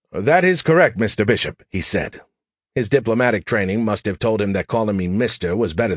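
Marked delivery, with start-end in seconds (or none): 0.1-1.6 put-on an Englishman fumbling with his phone, British accent. Diplomat replies.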